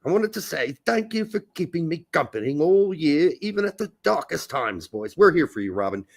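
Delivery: badly faked English accent; hammy, unconvincing English reading; horrible English accent. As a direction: attempt an English accent and botch it. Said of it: "that was a horrible English accent".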